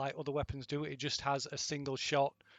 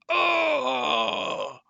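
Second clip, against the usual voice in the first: surprised yelp; 13 semitones higher, 11 dB louder than usual. Real, not acted. GM reacts to dropped call.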